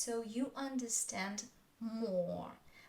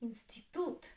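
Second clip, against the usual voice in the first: "Institute" stressed on the final syllable, tute; stress on last syllable. Shown as a demonstration. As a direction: lean on the end of "Institute". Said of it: "The last one is stressed".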